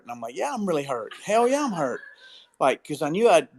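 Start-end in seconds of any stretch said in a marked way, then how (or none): 0.4-2.0 retold indignant protest. Hurt dad answering doubting companions, mock-indignant insistence. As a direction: pitch climbing into mock indignation.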